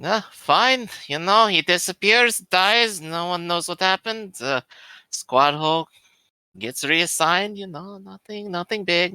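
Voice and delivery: a put-upon trooper shrugging off a death; character voice. Acted.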